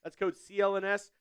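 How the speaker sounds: quick, polished sponsor read; fast ad read. Acted. Streamer reading a sponsor spot to viewers, fast ad voice. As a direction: rattle off the ad like a pitchman.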